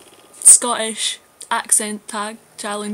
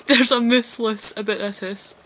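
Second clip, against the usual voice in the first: louder, amused Scottish catchphrase; laughing; 5 dB louder than usual. Shown as a demonstration. Reading a Scottish phrase for the accent challenge, laughing. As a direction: belt out the line through a laugh.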